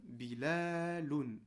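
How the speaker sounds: "bilaloun" with the la held long; long middle vowel. Shown as a demonstration. Teacher reading the whole word, long middle vowel. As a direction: slowly read "bilaloun", stretching la. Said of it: "ça nous donne".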